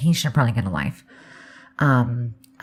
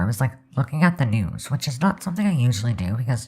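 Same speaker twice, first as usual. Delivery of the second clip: normal talking voice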